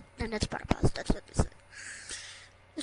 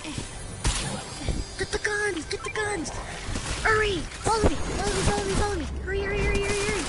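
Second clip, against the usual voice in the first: panicking gamer; 8 semitones higher than usual. Real, not acted. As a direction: yell directions in a rush. Leading friend away from zombies.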